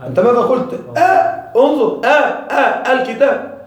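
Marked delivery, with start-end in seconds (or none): 1.6-3.6 آ and الكتاب said slowly with a clear glottal onset; hamza demo. Shown as a demonstration. Teacher to class, slow demo of the hamza onset. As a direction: start آ with a catch, then slow الكتاب. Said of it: "هذه ألف أم همزة؟".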